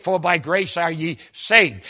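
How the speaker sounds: slow quote landing on "saved"; emphasis on saved. Retold or imitated. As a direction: lean on the final "saved". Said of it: "Every time I come to the word saved".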